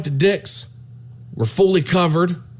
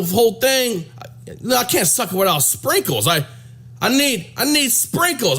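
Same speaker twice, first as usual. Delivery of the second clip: irate woman; 4 semitones higher than usual. Retold or imitated. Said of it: "She goes".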